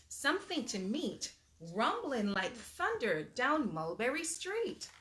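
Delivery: lively storybook reading aloud; animated read-aloud for little kids; reading to children. Acted. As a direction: read it like bedtime story time. Reads picture book aloud.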